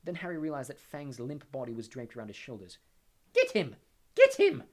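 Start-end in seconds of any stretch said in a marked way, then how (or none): 3.3-4.6 loud, high scream, rising on the repeat; screamed command. A narrator's reading. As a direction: scream the order, higher the second time. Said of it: "screamed Umbridge".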